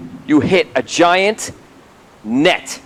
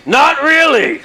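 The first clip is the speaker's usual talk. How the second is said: lightly voiced dry answer, higher; retold deadpan reply; 8 semitones higher, much slower than usual. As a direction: GM voices a character answering Jacques, a dry higher "not really". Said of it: "And he's like".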